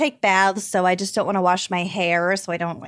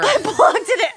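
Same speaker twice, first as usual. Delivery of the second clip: laughing; 12 semitones higher than usual. Real, not acted. Laughing at loud tumbler.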